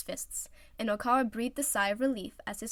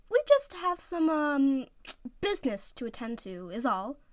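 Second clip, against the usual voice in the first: high, hesitant excuse; nervous cover; 5 semitones higher, 4 dB louder than usual. Acted. Oikawa hiding the meeting from his friends, nervously evasive. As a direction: cover up, trying to sound casual.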